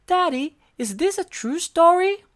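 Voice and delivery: small eager monster voice; Elmo voice. A narrator's reading. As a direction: squeak it up like Elmo. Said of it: "asked Elmo".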